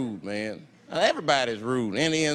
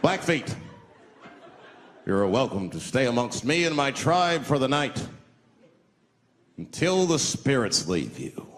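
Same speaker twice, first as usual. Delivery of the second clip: lightly voiced solemn chief; 3 semitones lower than usual. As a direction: invite him gravely. Chief offers teepee.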